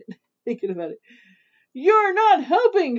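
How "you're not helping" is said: high, loud complaining shriek. A narrator's reading. Mother witch scolds sleepy Little Witch, shrieking. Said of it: "shrieked Mother Witch".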